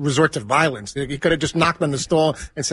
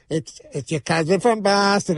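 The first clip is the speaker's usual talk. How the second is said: put-on Boston accent; 2 semitones higher, slower than usual. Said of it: "making fun of, like, the, the Boston accent".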